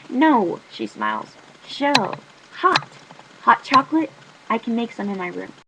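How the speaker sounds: steady first-person novel reading; story narration. A narrator's reading. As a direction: tell the story to the listener. Reads novel aloud as narrator.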